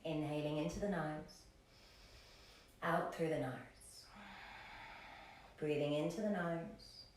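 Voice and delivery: calm yoga teacher pacing the breath; guided breathing. Acted. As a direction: cue each breath calmly, with long pauses.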